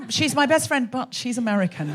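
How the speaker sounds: mock disdain, dropping away at the end; lightly scornful qualification, falling in pitch; disdainful. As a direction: imitate a best friend's mild scorn. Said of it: "That's how she said it".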